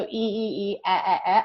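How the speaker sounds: eh eh eh, clipped short e; short eh sound. Shown as a demonstration. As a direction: model the short e for kids. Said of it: "a word that starts with the letter E".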